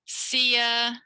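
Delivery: "Sear" held long on a level note; teacher's sustained "Sear"; model syllable. Shown as a demonstration. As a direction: draw out "Sear" clearly for copying. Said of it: "I'm gonna say it and you imitate me".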